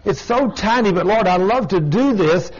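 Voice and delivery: high, wheedling excuse to the Lord; mock pleading sinner. Preacher mimicking a churchgoer begging the Lord to excuse a tiny sin, in a high wheedling voice. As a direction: play a whiny sinner bargaining with God.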